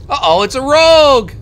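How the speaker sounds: hammed-up uh-oh at the enemy; mock alarm. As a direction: cry out as if a rogue is coming for you.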